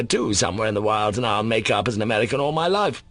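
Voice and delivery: Mitya's plan. Acted. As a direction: spill the plan out hopefully. Mitya lays out his plan.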